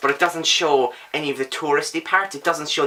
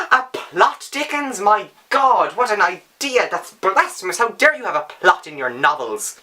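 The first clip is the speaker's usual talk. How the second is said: sarcastic mock outrage; 4 semitones higher than usual.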